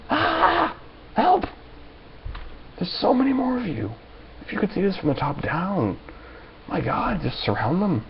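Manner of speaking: very high panicky mock cries; mocking fleeing police. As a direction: shriek like cops running away. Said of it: "you watch the mob fleeing".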